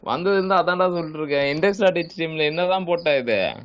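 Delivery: exasperated scolding. Real, not acted. Teacher keeps scolding the student.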